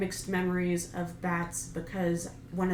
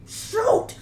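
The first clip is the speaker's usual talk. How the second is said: high loud Shoot!; shouted call; 9 dB louder than usual. Acted. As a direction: call out the throw. Rock paper scissors call.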